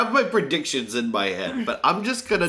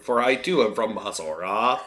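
mock alien; 4 semitones lower than usual. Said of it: "You sound like an alien".

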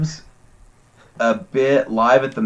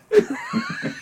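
shrill cackle of real laughter; high shrieking laugh; 7 dB quieter than usual. Real, not acted. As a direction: burst out in a squealing laugh. Big laugh at joke.

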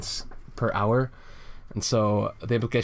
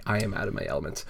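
fast quiet reading; 2 semitones lower, 4 dB quieter, much faster than usual. Retold or imitated. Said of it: "You, you say".

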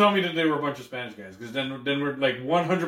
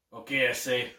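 put-on Jamaican accent; 6 semitones lower, 6 dB quieter than usual. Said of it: "Do a Jamaican accent".

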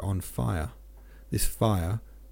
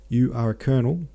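mild shout; 3 semitones higher, 4 dB louder than usual. Acted. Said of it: "shouted ... with a German accent".

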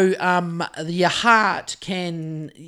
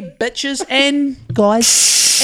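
drawn-out greeting; 3 semitones higher, 4 dB louder, much slower than usual. Acted. Announcing four twenty to listeners.

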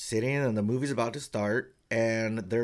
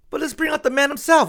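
much higher and louder build-up; hype announcer; 9 dB louder than usual. Retold or imitated. Host teasing the headline guest, hype announcer. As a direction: whip the crowd up for the star. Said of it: "And then he goes".

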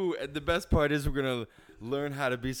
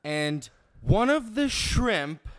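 Karen complaining; 4 semitones lower, slower than usual. Acted. Karen skit complaining to waiter.

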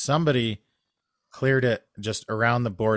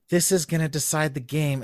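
excited thought; 8 semitones higher than usual. Retold or imitated. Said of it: "everyone is thinking".

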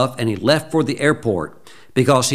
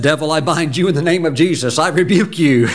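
forceful rebuke; 4 semitones higher than usual. Retold or imitated. Rebuking God as devil.

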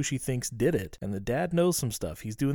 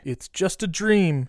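soothing; 6 semitones higher, slower than usual. Real, not acted. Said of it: "it is a dream, so it could look weird".

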